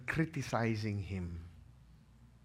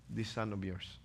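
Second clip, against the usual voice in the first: sneering emphasis; 5 semitones lower, 10 dB quieter than usual. Shown as a demonstration. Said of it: "What did he say?".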